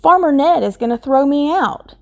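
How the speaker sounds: worried. Acted. Scarecrow worried.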